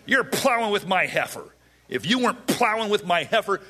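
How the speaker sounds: hammed-up indignation; angry. Samson repeating his accusation to the groomsmen, mock angry. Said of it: "he's angry".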